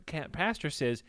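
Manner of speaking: ordinary talk, nothing marked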